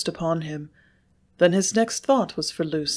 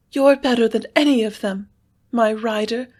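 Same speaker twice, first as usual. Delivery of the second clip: louder, full-voiced cry with a tremble; cried full-voiced; 5 semitones higher, 4 dB louder than usual. A narrator's reading. Lucy to Sloane, crying out full-voiced and tremulous. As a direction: pour the admiration out. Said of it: "she cried, full-voiced and tremulous".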